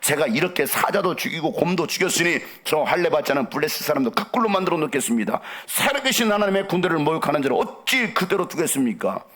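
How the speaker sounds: put-on young David's firm declaration to the king; bold and unyielding. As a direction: declaim it undaunted, in long driving phrases. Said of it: "다윗은 굽히지 않고". (굽히지 않는 담대한 선언)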